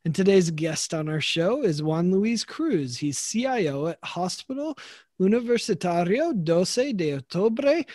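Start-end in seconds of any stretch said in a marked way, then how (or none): 4.0-7.9 Spanish with an English accent; Anglicized Spanish pronunciation; American accent Spanish. Real, not acted. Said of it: "I'm sorry for my terrible Spanish".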